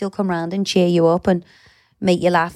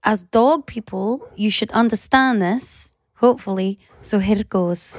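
put-on Scottish accent. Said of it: "you're doing it in a Scottish accent".

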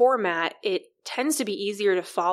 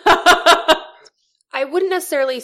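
words pushed out through laughter, slower; laughing while talking; 10 semitones higher, 10 dB louder, slower than usual. Real, not acted. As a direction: still laughing as she answers. Laughing after the joke.

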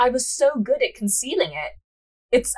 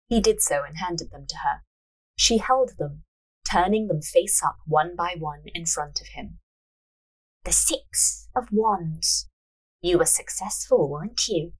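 measured storyteller's reading; story narration; 3 semitones lower than usual. A narrator's reading. Narrator reading a fortune-teller scene, measured narration. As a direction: read the tale aloud, unhurried.

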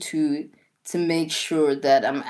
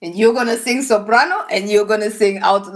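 higher, louder, playing the bossy kid director; bossy little girl; 4 semitones higher, 5 dB louder than usual. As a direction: boss the neighborhood kids like a tiny conductor. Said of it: "she was like".

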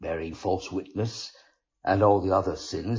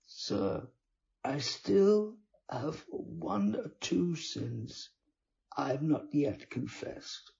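Ciappelletto voiced higher, pious and earnest; pious sinner; 6 semitones higher, 5 dB quieter than usual. A narrator's reading. Con man to the friar, sanctimonious and raised. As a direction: play the holy man protesting his honesty.

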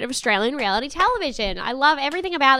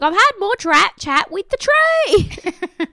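high, slow, drawn-out mock complaint; mock indignant; 9 semitones higher, 5 dB louder, slower than usual. Imitating the contestant about the tree, high drawn-out mock complaint. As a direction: stretch it out all put-upon. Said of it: "She's like".

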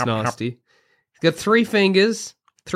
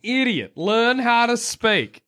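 high, slow mock scold; play-scold a friend; 6 semitones higher, slower than usual. Joining the mock teasing.

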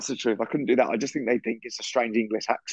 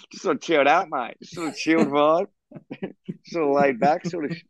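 put-on laid-back Australian accent; 3 semitones higher than usual. Podcaster joking about chilled vibes to co-host, mock Australian accent. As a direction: play a chilled-out Aussie, accent lightly put on. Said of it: "I'm doing an Australian accent".

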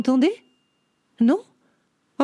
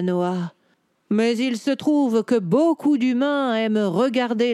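voix de chat lente et posée; réponds en vieux chat sage; chat savant posé; slower than usual. Acted. Cat answers Noah. (chat érudit, ton lent et assuré)

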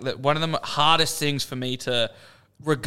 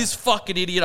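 muttered anger; 5 semitones higher than usual. Retold or imitated. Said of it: "over the top mad about it".

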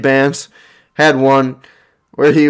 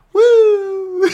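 surfer woo. Retold or imitated. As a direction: let out a wild surfer cheer.

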